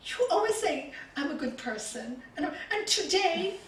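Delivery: imitating an upset grandchild, pitch climbing; mock tearful protest. Crying granddaughter protests to her granny, mock tearful and rising. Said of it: "And she starts crying".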